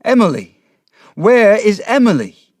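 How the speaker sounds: high, loud desperate shouting. A narrator's reading. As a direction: bellow for her in panic. Father shouting for missing daughter.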